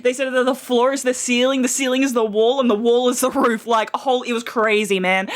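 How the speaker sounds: lightly mimicked guy hyping a story to friends; low-pitched mock retelling in one quick run; imagined bro storytelling. Guy telling his friends about the Australian, lightly mimicked. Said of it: "he probably went around to his friends like".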